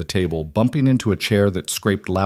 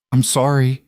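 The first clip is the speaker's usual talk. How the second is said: choked up; 5 semitones higher than usual. Acted. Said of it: "she choked out".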